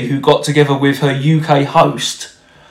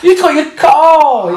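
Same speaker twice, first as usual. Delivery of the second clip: high, hammed-up Russian accent; bad Russian accent; 13 semitones higher, 4 dB louder than usual. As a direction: fake a Russian accent, badly. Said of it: "Bad Russian accent there".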